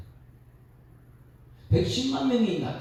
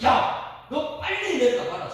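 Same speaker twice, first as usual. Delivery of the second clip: high, raised-voice divine command; angry God; 7 semitones higher, 4 dB louder, slower than usual. Acted. God sends Moses down the mountain, commanding angrily. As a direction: call out sharply as God giving an order. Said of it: "하나님께서는".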